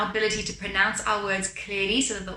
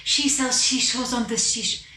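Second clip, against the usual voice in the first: breath-heavy, muddied sibilants; too much breath. Shown as a demonstration. Teacher warns students, demonstrating too much breath. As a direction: push too much air through the words. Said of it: "not pushing too much breath".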